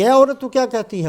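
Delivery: جلال. Retold or imitated. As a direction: retell a wrathful demand, pitch lifted. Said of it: "جلال میں آئے". (جلال بھری بلند آواز کی نقل)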